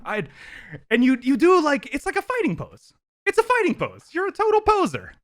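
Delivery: mock your sister's fighting pose in a rough Russian accent; Yelena's Russian accent. Host reads his favourite Yelena line, in a rough Russian accent, teasing. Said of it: "I need to work on my Russian accent".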